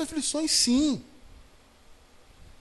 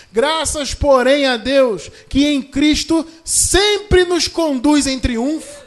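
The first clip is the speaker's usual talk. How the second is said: loud, slow triumphant proclamation; shouted scripture; 6 semitones higher, 10 dB louder, much slower than usual. Shown as a demonstration. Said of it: "veja o que diz".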